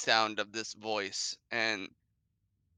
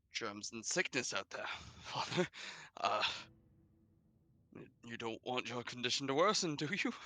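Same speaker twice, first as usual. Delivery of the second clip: soft, tentative voice lifting at the end; timid son; 6 dB quieter than usual. Acted. Cecil reasoning with his bedridden father, timid and soft. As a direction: plead gently like a cowed child.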